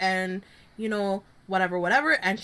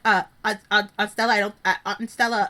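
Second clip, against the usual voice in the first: mock hesitant family; 3 semitones lower than usual. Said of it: "her family's like".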